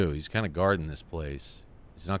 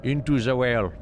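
louder, punch INTO; emphatic call; 5 semitones higher, 5 dB louder than usual. Shown as a demonstration. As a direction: call it out dramatically. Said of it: "repeated with emphasis".

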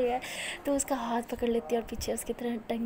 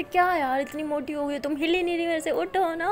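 straining tug; 5 semitones higher, 4 dB louder than usual. Acted. Tugging lazy girlfriend out of bed.

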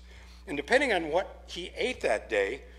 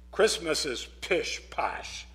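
gruffly; slower than usual. Acted. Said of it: "said Jonathan gruffly".

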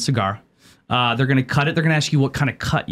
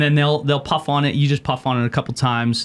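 talking around cigar; puffing while speaking; cigar in mouth. Real, not acted. Seen 0: Speaker holds cigar at his lips throughout the labelled words.

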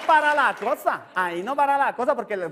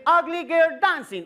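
"ugly girl dancing" in fake English; playing a gringo menu reader; mock English; 6 semitones higher, slower than usual. Shown as a demonstration. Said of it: "o sea, bagre en salsa". (inglés macarrónico fingido)

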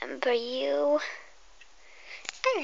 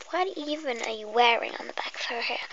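whisper; 2 semitones lower than usual. Acted. Whispering to the viewer before the pretend hairdresser game. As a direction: breathe every word like an ASMR intro.

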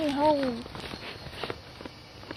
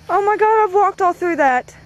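scared; 5 semitones higher, 4 dB louder than usual. Acted. Fright over walking in dirt.

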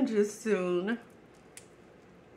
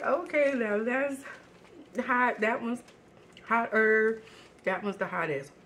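excited tasting; 4 semitones higher than usual. Retold or imitated. Quoting themselves tasting spice levels.

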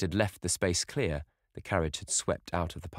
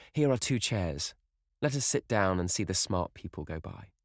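higher, lilting voice, fondly teasing; affectionate young sister; 5 semitones higher than usual. Acted. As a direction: coax a sulky brother out of his gloom. Sister fondly cheering her brother.

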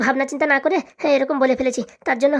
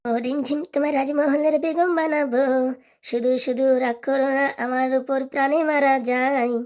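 coaxing husband; slower than usual. Acted. Husband coaxing angry wife.

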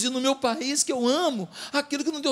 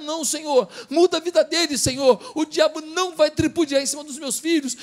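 tearful pleading prayer; 5 semitones higher than usual. Retold or imitated. Mother praying for her sons, pleading tearfully. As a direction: beg God for your sons, voice climbing. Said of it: "E a senhora chorava, dizendo".

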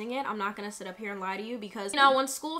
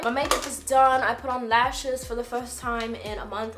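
lightly put-on British accent, louder; playful British accent; 2 semitones higher, 5 dB louder than usual. Vlogger showing off her finished makeup, mock British accent. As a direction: throw on a jokey British accent, drawing out "very". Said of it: "cut it out with the British accent".

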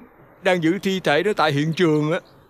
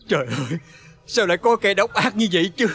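sobbing lament. Acted. Father lamenting murdered son.

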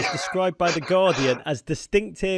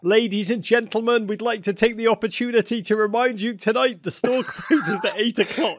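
mock Harrods announcer; 5 semitones higher than usual. Interviewer imitates Harrods announcement.

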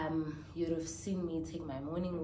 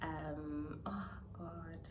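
teary; 5 dB quieter than usual. Real, not acted. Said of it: "I'm so teary saying this".

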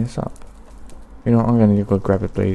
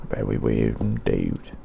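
much lower, slow, mock-grave voice; deep mock voice; 12 semitones lower, 5 dB quieter, much slower than usual. Telling viewers he feels weird today, mock-deep. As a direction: drop into a slow mock-serious voice. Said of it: "It's very weird".

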